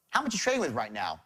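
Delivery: low, inspector-general questioning; interrogating. Shown as a demonstration. Sales trainer shows the prying way to ask a prospect, interrogating.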